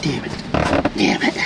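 usual speaking voice

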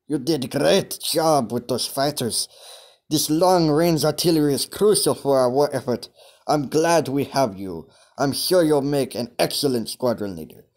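put-on a light German officer accent; lightly put-on German accent. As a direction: play a German commander with a thin accent. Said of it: "I'm trying to do a German accent".

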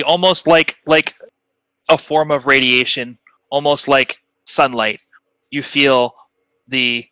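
measured, phrase-by-phrase scene setting; game master narration. Acted. Game master telling players what they feel in their minds, measured narration. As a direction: describe a vast presence, pausing between phrases.

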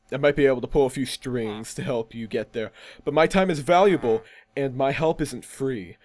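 understated businesslike fixer; self-important deal-maker. Acted. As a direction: bargain coolly, as one whose help has a price. Plays the deal-making stranger.

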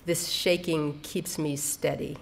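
unhurried, measured quotation; quoted poetry line. Acted. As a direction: read the quote slowly and let it settle. Reads a quoted poem line.

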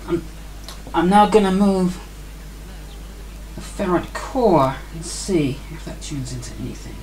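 ordinary delivery

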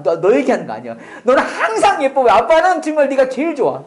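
giggly, sheepish make-up to the daughter; laughing reassurance. Real, not acted. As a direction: laugh it off and butter her up. Joking reassurance to daughter present.

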